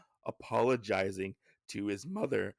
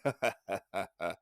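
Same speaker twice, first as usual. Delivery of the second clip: acted villain's laugh, lightly done; mock laughter; 3 semitones lower, much faster than usual. Town boss laughs at the samurai, mock laughter. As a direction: imitate a short, dry "ha ha" laugh. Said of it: "Otsusan starts laughing".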